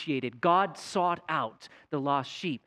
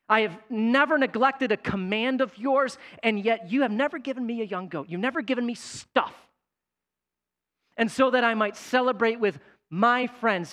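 resentful son; 5 semitones higher than usual. Acted. Older son complains to father.

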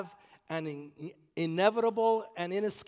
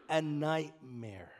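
slow ominous; 5 semitones lower, much slower than usual. Acted. Dramatic slow drop.

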